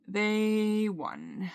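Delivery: long-held THEY, then WON trailing away; drawn-out, defeated. Real, not acted. Admitting absolute defeat to the anxiety, drawn-out and resigned.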